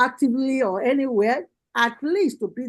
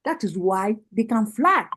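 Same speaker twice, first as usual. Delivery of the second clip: rousing rally address, rising on each call; fiery political speech. Real, not acted. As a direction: preach it to the party women like a campaign rally. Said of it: "spitting fire".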